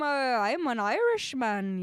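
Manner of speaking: slow, badly attempted Irish accent. Player failing at an Irish accent for fun, attempted Irish. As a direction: have a go at an Irish accent, drawn out. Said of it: "cannot do an Irish accent".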